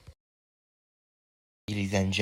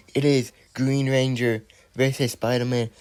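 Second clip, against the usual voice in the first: excited commentary. Acted. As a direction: sell every move to the crowd. Toy wrestling play-by-play.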